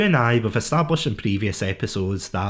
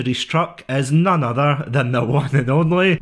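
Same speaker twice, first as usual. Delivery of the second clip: stifled giggles. Real, not acted. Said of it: "how much you're laughing at your own joke".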